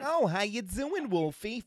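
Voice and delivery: high, loud hello in mock delight; mimicked pizza man greeting. Pizza man greeting a kid, imitated high and loud. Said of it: "So he's like".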